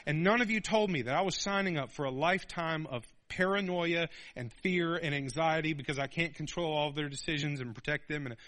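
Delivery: ordinary delivery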